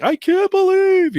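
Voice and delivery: squeaky high, drawn-out hype voice; imitating high-energy vlogger; hyped YouTuber voice. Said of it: "voice is up".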